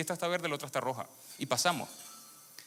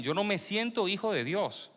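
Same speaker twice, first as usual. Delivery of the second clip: slow, higher, weighing each word; slow emphatic; 5 semitones higher, slower than usual. Real, not acted. Preacher pressing the point on the congregation, slow emphasis. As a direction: make them listen to every word. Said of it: "escúchenme bien".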